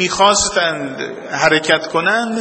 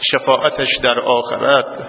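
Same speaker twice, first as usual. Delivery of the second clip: steady, lower chanted supplication; prayer recitation; 3 semitones lower than usual. Acted. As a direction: lead the congregation in prayer. (دعای آرام و آهنگین)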